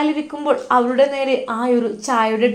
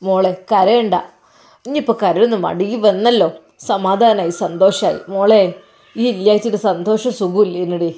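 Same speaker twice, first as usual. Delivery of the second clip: a hint of a gentle old father, consoling; old father comforting, slightly lower; lightly voiced old father; 3 semitones lower than usual. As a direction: soothe the crying daughter-in-law like an elderly father.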